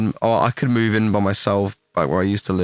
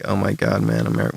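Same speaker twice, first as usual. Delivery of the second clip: light American accent. Shown as a demonstration. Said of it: "the less American I put on".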